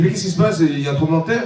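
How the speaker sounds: high, startled call toward the kitchen; alarmed husband. Acted. Husband calling out alarmed at a scream from the kitchen. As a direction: act jolted by a scream.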